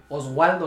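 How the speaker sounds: "Oswaldo", W instead of V in the middle. Retold or imitated. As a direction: say "Oswaldo" with a gliding W sound. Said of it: "siempre se confunden".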